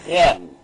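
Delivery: "rem" read as one syllable with initial R sounded. Shown as a demonstration. Teacher reads the first syllable aloud, "rem" set apart clearly. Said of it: "Então vamos ler".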